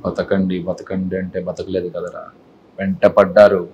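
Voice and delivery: low, slow menacing threat; restrained film-style anger, pitched low; angry dialogue. Acted. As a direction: deliver a hero's warning to the villains, low and cold. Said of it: "కోపం".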